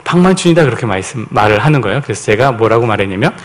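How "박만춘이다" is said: possessed father's answer. Retold or imitated. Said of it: "아버지가 근데 아들한테".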